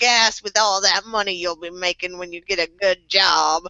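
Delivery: lightly voiced nagging grandma; old lady voice. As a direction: scold like a fussy granny. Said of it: "in my old lady voice".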